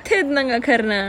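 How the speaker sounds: "Titnang Akarna" copied from the machine voice, falling; "Titnang Akarna" echoed like the Google Indonesian voice; imitating Google Indonesian. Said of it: "I just wanna hear the Indonesian version".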